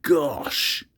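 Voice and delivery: a hushed little gasp of delight; murmured. A narrator's reading. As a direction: breathe it out in amazement. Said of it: "murmuring things like".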